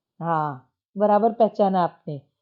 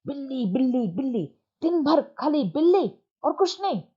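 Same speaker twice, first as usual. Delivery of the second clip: retold angry yell; 5 semitones higher than usual. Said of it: "चिल्ला के उसने बोला".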